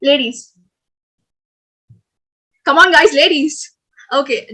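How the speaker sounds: spaced-out calls with long pauses; unhurried game caller; slow game calls. Shown as a demonstration. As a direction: call each word slowly, waiting for the actions. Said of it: "I'll tell out words super slow".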